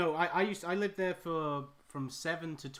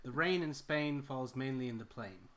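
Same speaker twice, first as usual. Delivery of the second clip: American accent. Shown as a demonstration. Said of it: "Can you still do an American accent?".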